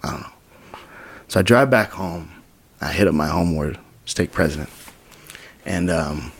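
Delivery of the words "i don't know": low, soft, sinking answer; subdued retold uncertainty; helpless. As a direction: mumble it softly, at a loss. Retells helpless answer to her.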